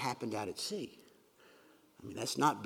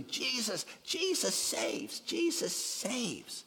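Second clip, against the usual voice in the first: joyful cry; 9 semitones higher, 3 dB quieter, much slower than usual. Pretend. Jonah's joyful cry voiced.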